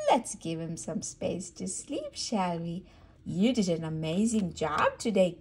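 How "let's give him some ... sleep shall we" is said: soft, hushed voice. Real, not acted. Mother hushing so the baby owl can sleep.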